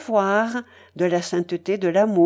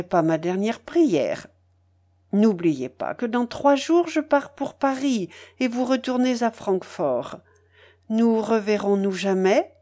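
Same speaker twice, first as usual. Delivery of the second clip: lightly voiced lady, gently pleading; animated feminine appeal to a gentleman; coaxing Madame Polosov; 4 semitones higher than usual. (dame qui supplie avec charme, légèrement jouée)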